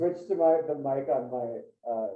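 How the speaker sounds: echoey laptop camera mic; sounding like inside a cave. Real, not acted. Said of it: "now you sound like you're in a cave".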